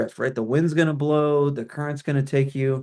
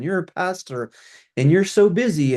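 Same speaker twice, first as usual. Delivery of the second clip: mildly mocking, a bit higher; mocking email tone; 5 semitones higher than usual. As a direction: lightly parody a condescending email. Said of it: "let's call it the tone of those emails".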